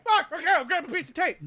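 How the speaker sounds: high, loud, laughing through it; flustered giving in, laughing. Retold or imitated. As the cowed recruit, giving in while laughing. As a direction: cave in with a laugh. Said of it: "you'd be like".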